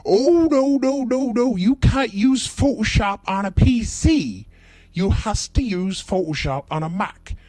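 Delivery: high, loud, protesting rustic voice; hammed-up shrieking customer; insistent yokel customer. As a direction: shout him down in a squeaky country voice. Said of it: "customer insists Macs only".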